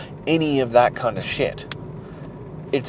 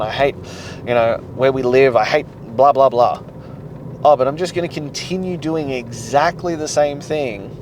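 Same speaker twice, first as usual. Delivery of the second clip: louder, mocking complainer tone; mocking whiny voice; 4 dB louder than usual. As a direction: sneer at the excuses as you quote them. Mocking a whiny excuse-maker.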